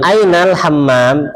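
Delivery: slow, careful fusha "Ainal hammam"; formal Arabic. Shown as a demonstration. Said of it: "Bahasa Arab fusahnya".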